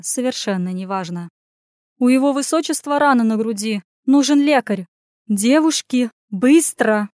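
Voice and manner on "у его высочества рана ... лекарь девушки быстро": raised, higher, pressing voice; urgent command. Acted. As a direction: order helpers to hurry. Lady urgently orders help.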